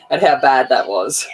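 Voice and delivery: laughing through the words; amused, chuckling delivery. Real, not acted. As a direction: break into a laugh at your own bad attempt. Laughs at own bad accent.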